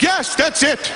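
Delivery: high-pitched emphatic approval; acted exclamation. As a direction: exclaim it high, as if finally understood. Patient relieved by returning nurse.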